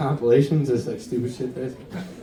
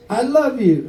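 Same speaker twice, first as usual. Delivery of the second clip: screamed love call; 8 semitones higher than usual. Retold or imitated. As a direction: yell it out from the crowd. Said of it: "and she screamed it out".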